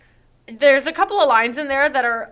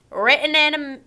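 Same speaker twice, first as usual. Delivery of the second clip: put-on horrible Southern accent; 3 semitones higher than usual. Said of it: "with a horrible Southern accent".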